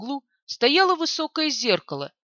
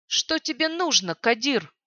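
cold; 2 semitones higher than usual. Acted. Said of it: "холодно произнесла проклятая".

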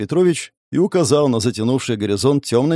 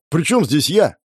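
higher-pitched, protesting question; mildly outraged retort; indignant; 4 semitones higher than usual. A narrator's reading. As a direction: protest being dragged into it. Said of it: "возмутился я".

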